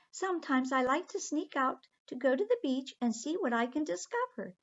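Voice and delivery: high, sweet little mermaid. Acted. Aqua the mermaid politely telling the children she must go home, high voice. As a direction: lift the voice up high for the tiny mermaid.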